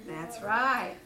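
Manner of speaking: a hint of low, glum donkey; gloomy Eeyore. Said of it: "said Eeyore".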